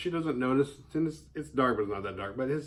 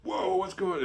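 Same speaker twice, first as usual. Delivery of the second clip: mock surprise; 8 semitones higher than usual. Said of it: "She wasn't like".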